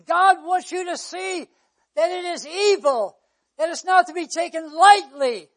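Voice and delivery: loud, insistent pulpit warning; preaching. Real, not acted. Preacher warning congregation about sin, preaching forcefully. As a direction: drive each phrase home to the congregation.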